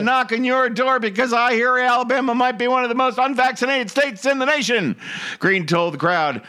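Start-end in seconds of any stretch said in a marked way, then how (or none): 0.0-5.0 high, mocking Southern politician voice; hammed-up Southern rally speech; mock Southern accent. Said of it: "this is what she said".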